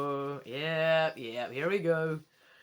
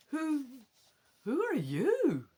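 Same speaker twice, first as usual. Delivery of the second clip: higher, halting, frightened stammer; stuttering fright; 8 semitones higher than usual. Acted. Boy in the dark stammering at the ghost, scared. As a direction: trip over the words in fear. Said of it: "you stutter".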